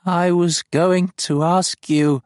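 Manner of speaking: high, loud, slow alien confession; dying alien voice; fading creature. Acted. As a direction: struggle out the words while dying. Dying farm speaks.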